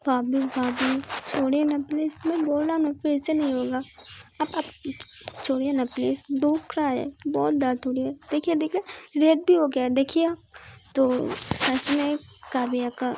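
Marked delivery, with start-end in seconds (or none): 0.1-10.4 put-on pleading young girl. Girl begs her sister-in-law to let go of her ear, whiny plea. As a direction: whimper a plea, rising at the end.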